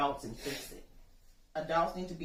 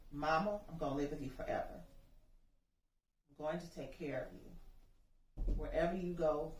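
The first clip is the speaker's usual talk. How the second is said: tender memory; 3 dB quieter than usual. Retold or imitated. Mother hearing her son's words in her head, soft and tender. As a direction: hold his words gently like a memory. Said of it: "all I heard were Trey's words".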